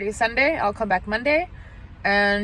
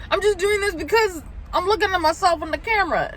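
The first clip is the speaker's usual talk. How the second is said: laughing; 9 semitones higher than usual. Real, not acted. Laughing at own joke.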